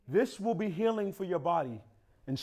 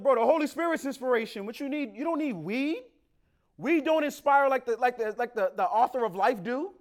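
retold rebuke; 9 semitones higher, 5 dB louder than usual.

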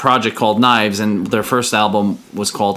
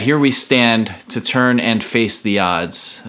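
slow, weighty recitation of song lyrics; solemn lyric reading; 2 semitones higher, slower than usual. Acted. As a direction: read the lyrics slowly, like a poem. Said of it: "when I hear that".

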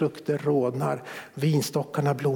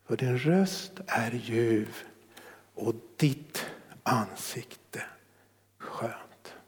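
tender slow praise; 2 semitones lower, slower than usual. Acted. Reading the lover's praise.

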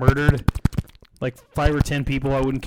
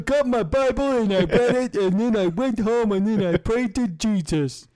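higher mock Southern preacher twang; hammed-up Southern; 5 semitones higher than usual. Paul Ryan praying to Jesus, hammed-up Southern voice. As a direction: ham up a pious Southern conservative. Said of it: "I'm doing Southern".

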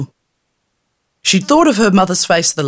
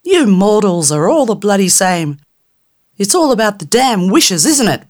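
high, loud, cursing tiny fairy; rude angry fairy; 6 semitones higher, 3 dB louder than usual. Acted. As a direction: snarl threats through the jar in a tiny high voice. Fairy scorns wishes.

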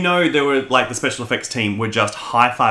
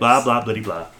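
mock English accent. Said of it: "imitates Giles ... English stereotypes".

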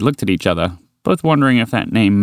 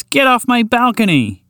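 higher and slower, every word hammered; the second, more insistent shoo; angrier old woman repeat; 13 semitones higher than usual. Acted. Old woman repeats her order to the horse, slower and fiercer. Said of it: "shake it around threateningly".

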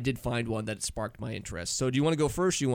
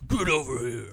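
Scorpion call. Retold or imitated. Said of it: "I'm thinking, like, Mortal Kombat".

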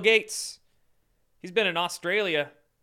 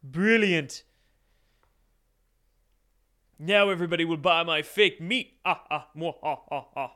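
scheming villain cackling over plans; Mister Burns. Retold or imitated. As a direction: gloat like an evil billionaire. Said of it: "sitting there like Mister Burns".

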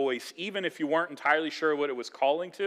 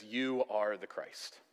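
soft, slow, hushed declaration; quiet confession; 4 semitones lower, 7 dB quieter, slower than usual. Retold or imitated. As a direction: say it slowly and quietly, in awe. Peter's confession to Jesus.

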